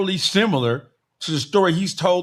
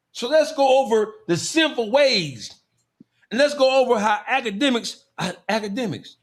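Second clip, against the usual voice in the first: mock preacher; 3 semitones higher than usual. Sermon again.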